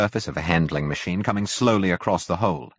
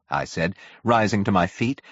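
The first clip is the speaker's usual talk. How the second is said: ordinary delivery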